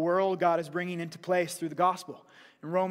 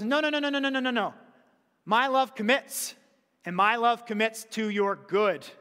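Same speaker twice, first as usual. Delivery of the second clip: God's reassuring voice; 2 semitones higher than usual. Retold or imitated. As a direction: answer as a loving God. God's voice answering.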